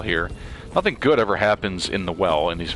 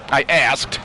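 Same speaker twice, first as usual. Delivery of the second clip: scared outburst; 6 semitones higher, 6 dB louder than usual. Real, not acted. Right after the jump scare.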